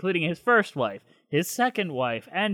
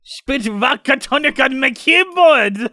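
a loud, higher hammed-up German accent; mock German accent; 7 semitones higher, 6 dB louder than usual. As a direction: bark it out like a cartoon German. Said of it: "Do your best German accent with this".

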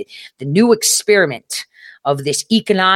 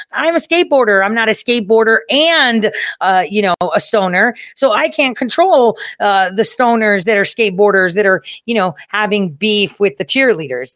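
higher, defensive mock Russia voice; 4 semitones higher than usual. Russia pleading it can't control the stoners, higher mock voice. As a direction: play Russia shrugging off blame in a higher voice.

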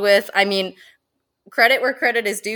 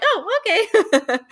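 mock surprise; 14 semitones higher, slower than usual. Hedgehog upstages the boa.

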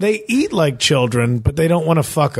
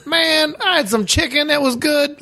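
monster voice; 12 semitones higher than usual. Pretend. Mock Boogie Monster voice.

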